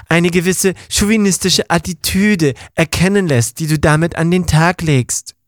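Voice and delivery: leicht verstellte Stimme eines belehrenden Gefährten; Ong Punch belehrend. Acted. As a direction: spricht Ronny herablassend tadelnd an, nur angedeutet verstellt. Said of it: "Ja, ist gut, Ong Punch, lass mal". (Gefährte Ong Punch belehrt Ronny über Selbstjustiz, leicht verstellte Stimme)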